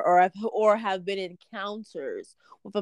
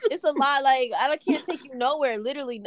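exasperated; 5 semitones higher, 4 dB louder than usual. Real, not acted. Exasperated at crying friend.

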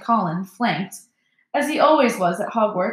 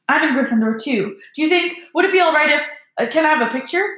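put-on higher-pitched, hurried, hesitant young fan; hopeful boy; 7 semitones higher, 4 dB louder, faster than usual. A narrator's reading. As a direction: ask shyly and eagerly, voice lifting. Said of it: "raising the camera hopefully".

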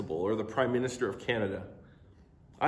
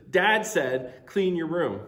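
put-on louder, higher bossy kid; kid with authority; 3 semitones higher, 5 dB louder, slower than usual. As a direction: invoke Dad's name to boss her. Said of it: "if Mason runs upstairs and says".

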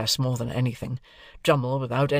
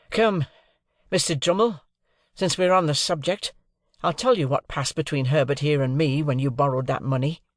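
challenging; 3 semitones higher, 3 dB louder than usual. Acted. Pip challenges Drummle.

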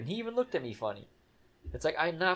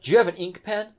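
high, loud mock local asking; put-on high questioning voice; imitated locals' question; 7 semitones higher, 8 dB louder than usual. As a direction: mimic the county locals, pitched up and loud. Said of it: "everybody says".

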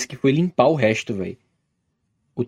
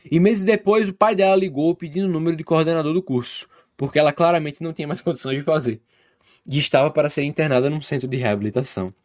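story narration; 5 semitones higher than usual. A narrator's reading. Reads listener's story aloud.

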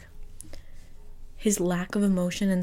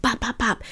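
punching sounds; 5 semitones higher than usual. Retold or imitated. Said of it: "started punching".

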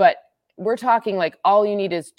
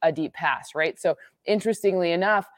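normal talking voice

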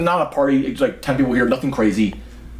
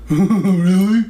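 mock surprise; 8 semitones higher, 5 dB louder than usual. Drunk friend's fake surprise.

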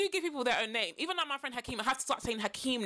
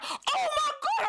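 shocked oh my god; 14 semitones higher, slower than usual. Retold or imitated. Retold realisation, laughing.

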